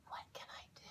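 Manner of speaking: breathy unvoiced whisper, close and intimate. Shown as a demonstration. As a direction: whisper it softly into his neck. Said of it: "And I whisper".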